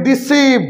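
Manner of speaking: "ডিসিভ" slow, with a long "see"; drawn-out "see" syllable. Shown as a demonstration. Teacher models a spelling-rule word, slow and drawn-out. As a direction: stretch the second syllable of "ডিসিভ". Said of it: "সি এই sound আসে".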